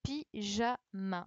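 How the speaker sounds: "Pyjama" said slowly and clearly; slow word demo. Shown as a demonstration. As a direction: spell out "Pyjama" by ear, slowly. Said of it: "mot répété lentement". (« Pyjama » dit lentement et clairement)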